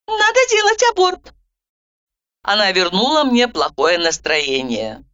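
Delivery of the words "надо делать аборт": high, brisk interrupting voice; Roza cutting in. A narrator's reading. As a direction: cut her off, businesslike. Roza's verdict.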